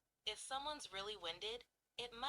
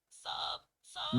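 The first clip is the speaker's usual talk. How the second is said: mock sobs; 10 dB louder than usual. Shown as a demonstration. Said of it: "Sobbing might sound like sob".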